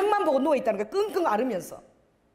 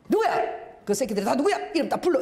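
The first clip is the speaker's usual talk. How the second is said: mock angry demand. Pastor angrily demanding names.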